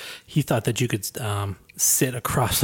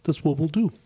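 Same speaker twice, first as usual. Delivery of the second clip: forcing a deep voice; 5 semitones higher than usual. Retold or imitated. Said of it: "That's my fake deep voice".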